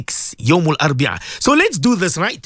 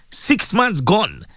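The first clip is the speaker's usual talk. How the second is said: slow emphatic repeat; much slower than usual. Real, not acted. Host marvelling to listeners at half the year gone, slowly. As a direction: drag it out, slowly.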